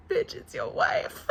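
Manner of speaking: very high, drawn-out squeak through laughing tears; tearful mock retort. Recalling her reaction to the groom, squeaky and tearful. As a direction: squeal it slowly, half laughing, half crying.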